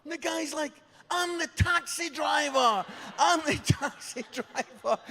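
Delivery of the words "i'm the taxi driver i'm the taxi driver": high, loud, frantic cry; desperate protest. Retold or imitated. Taxi driver mistaken for the father, loud desperate protest. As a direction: wail it as the wrongly drafted bystander.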